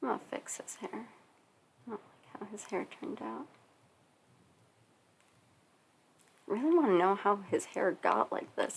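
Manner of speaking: hushed, really quiet, kept-down talking. Speaker drawing, trying not to bug the family, talking really quietly. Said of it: "I'm talking really quietly".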